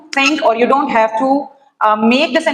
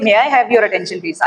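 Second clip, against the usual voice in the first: politer tone; 3 semitones lower, faster than usual. Shown as a demonstration. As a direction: ask gently and politely. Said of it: "in a politer tone".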